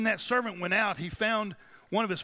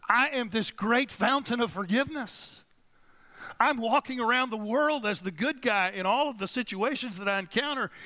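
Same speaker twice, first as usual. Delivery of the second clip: self-righteous Peter; 4 semitones higher than usual. Retold or imitated. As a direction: play a proud man tired of forgiving. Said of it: "The problem is".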